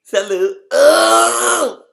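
very high, loud French Salut; French hi with delight. Shown as a demonstration. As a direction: swoon into Salut. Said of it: "sexy ass accent".

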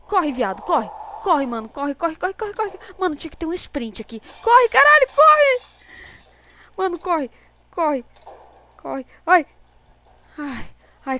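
loud, high frantic urging; being chased. Real, not acted. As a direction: yell "run" in rising panic. Fleeing monsters in game.

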